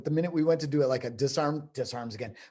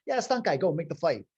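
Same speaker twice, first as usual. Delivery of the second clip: high, loud mock film-crew order; brisk imitated order; 5 semitones higher, 6 dB louder than usual. Crew tells stunt guy to fight, imitated brusque order. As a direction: toss out the order like a pushy crew boss.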